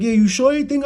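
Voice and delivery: grandma not quite buying it; doubtful grandmother. Retold or imitated. Grandmother asking again from the back, high and doubtful.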